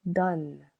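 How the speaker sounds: "Donne" said with a short open o, one syllable. Shown as a demonstration. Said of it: "needs to change its sounds to O".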